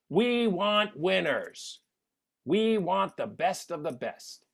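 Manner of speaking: drawn-out rallying slogan, mockingly grand; mock contest slogan. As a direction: proclaim it like a competition slogan.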